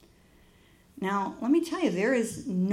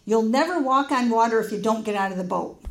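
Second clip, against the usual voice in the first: louder, emphatic declaration; single out one listener and declare it firmly; imitating a speaker's forceful challenge; pointed pronouncement; 5 dB louder than usual. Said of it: "she looked at me and pointed".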